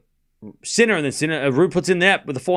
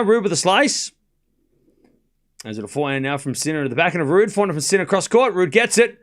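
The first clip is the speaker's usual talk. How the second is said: live play-by-play; 2 semitones higher than usual. Acted. Live tennis commentary.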